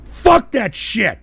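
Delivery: slow, loud, every word punched; slow angry emphasis. Real, not acted. Streamer repeating his dismissal in slow anger. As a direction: spit it out slowly again.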